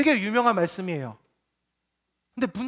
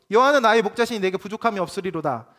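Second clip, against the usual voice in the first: measured, solemn reading of the psalm, slowing at the end; scripture reading; 3 dB louder than usual. Shown as a demonstration. Pastor reading Psalm 23 to the congregation, solemn. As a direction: read the psalm aloud with reverence. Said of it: "제가 읽어드릴게요".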